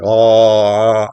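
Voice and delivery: dark throaty ah, tongue back. Shown as a demonstration. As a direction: swallow the vowel into the throat. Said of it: "make it a bit more throaty".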